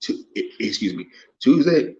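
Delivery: burp breaking into the words. Real, not acted. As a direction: talk through a burp. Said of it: "man, I'm burping".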